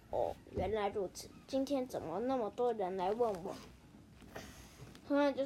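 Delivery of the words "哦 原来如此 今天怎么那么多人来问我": put-on lightly lowered, softer old grandpa voice; a hint of an old mouse. Grandpa mouse explains the tree's name, lightly voiced old man.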